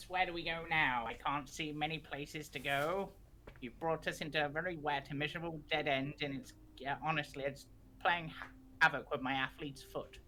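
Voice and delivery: lightly voiced grumbling companion; a hint of a moaning adventurer; grumpy companion.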